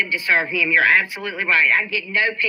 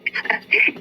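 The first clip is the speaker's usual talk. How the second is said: breathless laugh. Real, not acted. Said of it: "I start laughing because I'm so aggravated".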